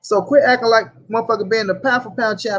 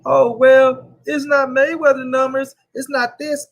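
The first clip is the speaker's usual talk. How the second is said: mocking critics; 4 semitones higher, slower than usual. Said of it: "people like to try to get on".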